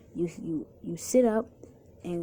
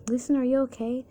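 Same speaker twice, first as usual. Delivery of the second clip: mild scream, higher and louder; worried scream; 6 semitones higher, 7 dB louder than usual. A narrator's reading. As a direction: call out to check on a hurt friend. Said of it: "Max screams".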